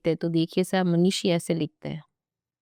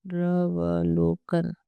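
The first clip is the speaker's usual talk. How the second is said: slow dictation; much slower than usual. Shown as a demonstration. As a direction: say "पुनर्वलोकन" slowly for writing it down. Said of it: "यहाँ लिख दो". (धीमे स्वर में "पुनर्वलोकन" लिखवाना)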